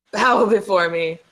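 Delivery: commanding villain voice; loud dark lord decree. Pretend. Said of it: "Wrong character".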